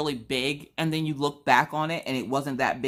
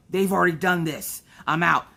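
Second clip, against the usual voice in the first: mock defeat; 3 semitones higher, 4 dB louder than usual.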